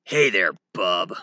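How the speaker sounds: a hint of a tough loner; Wolverine. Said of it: "also known as Wolverine".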